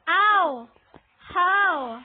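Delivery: loud cries of hurt protest; pained yelp. Real, not acted. Player beaten by a monster, pained yelp. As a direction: wail it loudly, as if struck.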